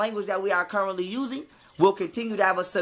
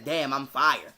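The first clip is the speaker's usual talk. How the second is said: mock dumb quote; 6 semitones lower, slower than usual. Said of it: "gets burned and says".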